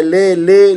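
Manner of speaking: ले said as a long "le"; ले with an e sound, marked as wrong; wrong reading. Shown as a demonstration. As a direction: demonstrate the wrong ले. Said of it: "ले नहीं पढ़ना".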